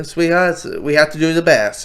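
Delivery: lightly put-on Black American accent. Steve Trevor to his sweetheart, in a light American accent. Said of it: "This is my Black American accent".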